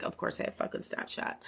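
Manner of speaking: breathy whispered scoff; whispered aside. Retold or imitated. Retelling her private reaction to his Snapchat question, whispered. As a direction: hiss it under your breath as a private eye-roll.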